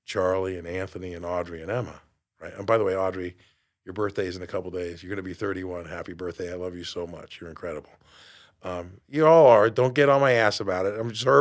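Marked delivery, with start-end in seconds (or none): 2.5-7.9 tender. Real, not acted. Birthday wishes to daughter.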